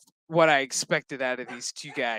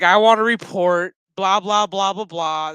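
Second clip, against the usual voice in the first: mock demanding captain; 3 semitones higher, 7 dB louder than usual. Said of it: "He's like".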